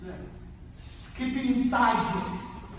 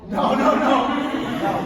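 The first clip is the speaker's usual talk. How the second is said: emphatic refusal; 4 semitones higher, 9 dB louder than usual. Real, not acted. Rejecting answers to his quote question.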